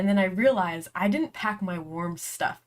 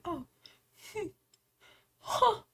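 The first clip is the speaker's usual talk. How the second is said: smug; 10 semitones higher, 6 dB quieter than usual. Retold or imitated. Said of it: "I look at everybody like".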